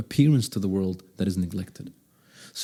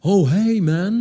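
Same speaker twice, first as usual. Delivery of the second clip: loud, raised call across a parking lot; chest-voice call; 10 semitones higher, 7 dB louder than usual. Shown as a demonstration. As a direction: call out to someone far off. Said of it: "See, that's my chest voice".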